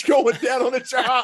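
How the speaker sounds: laughing out the end of the quote; words breaking into a laugh; laughing as he retells the coach's line; laughing through words. Real, not acted. Laughing while quoting coach.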